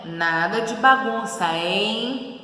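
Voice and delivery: slow, drawn-out admonishment; lightly acted warning with a stretched hein. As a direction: caution them slowly. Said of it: "tô advertindo ali".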